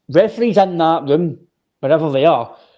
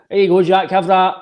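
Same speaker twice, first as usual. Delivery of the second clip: higher, mildly mocking voice; mock cheeky; 4 semitones higher, 3 dB louder than usual. Fan voicing a player's naughty challenge, mock cheeky. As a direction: act out a cheeky dig at an opponent.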